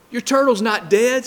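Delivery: high-pitched, astonished mom discovery; surprised mom. Acted. Mom telling her boy about his turtle, surprised.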